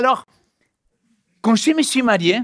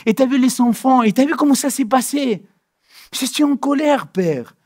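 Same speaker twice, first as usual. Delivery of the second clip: honest complaint to God. Retold or imitated. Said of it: "je l'aurais dit comme ça".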